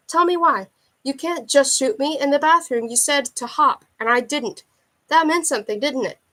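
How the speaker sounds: desperate captive begging the gunman; desperate pleading. Acted. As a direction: beg him to explain. Captive pleads before being shot.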